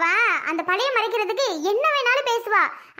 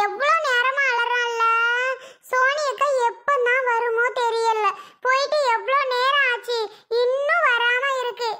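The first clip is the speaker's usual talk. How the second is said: worried fretting; 3 semitones higher than usual. Acted. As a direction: fret over a long wait, dragging the words. Worried wait beside a crying baby.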